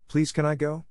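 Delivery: high-pitched, eager plea; pleading. A narrator's reading. Girl asking to go to the picnic, pleading. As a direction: gently beg for permission. Anne begs to attend picnic.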